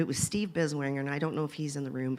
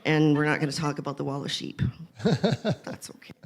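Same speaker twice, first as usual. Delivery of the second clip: laughing through the words, a bit fast; giggling while hinting at a secret; 4 dB louder than usual. Real, not acted. Teasing the panel about the wall of sheep, laughing.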